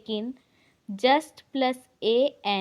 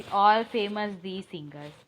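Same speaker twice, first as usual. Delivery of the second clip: slow dictation; 3 semitones lower, much slower than usual. Shown as a demonstration. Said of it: "ऐसा नहीं बनता कभी".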